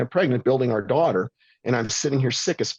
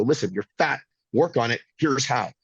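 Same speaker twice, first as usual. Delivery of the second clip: blunt. Shown as a demonstration. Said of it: "Tell them in two minutes, go".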